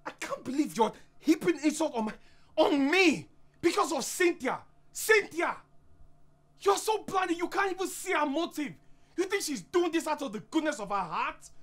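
high-pitched, heated protest; indignant. Acted. Husband accusing wife's friend of gloating, indignant. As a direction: protest as if personally insulted.

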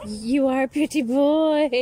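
bright high pet-talk voice, loud; high parrot talk. Real, not acted. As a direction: coo it up high and loud to the bird.

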